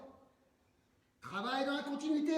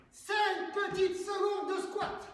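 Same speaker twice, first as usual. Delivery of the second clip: coach shout; 3 semitones higher, slower than usual. Real, not acted. Coach counting down exercise.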